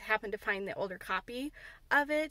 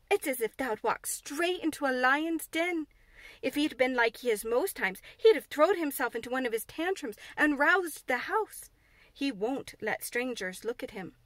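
alarmed Martha; 2 semitones higher, 4 dB louder than usual. Acted. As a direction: warn her breathlessly. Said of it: "she protested".

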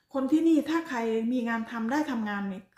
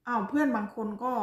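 ordinary delivery

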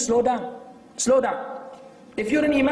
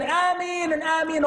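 mock screamed ameen; 4 semitones higher than usual. Shown as a demonstration. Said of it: "all this acting".

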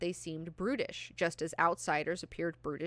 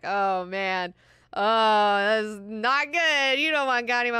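alarmed; 4 semitones higher, 11 dB louder, slower than usual. Real, not acted. Reacts to Ghani's rage.

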